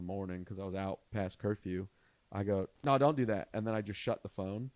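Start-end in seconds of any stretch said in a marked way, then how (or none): 2.8-3.5 higher, louder urgent objection; quick burst of mock panic; panicked protest. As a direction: blurt it out to stop someone. Panicked teen stops the call.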